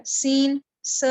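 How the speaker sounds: سین said as a long whistling hiss; whistled s. Shown as a demonstration. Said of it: "سیٹی کی آواز نکال کر اس کو پروناؤنس کیا".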